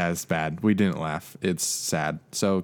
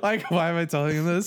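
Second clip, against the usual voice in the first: high laughing question; 9 semitones higher than usual. Real, not acted. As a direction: laugh through it. Laughing at herself.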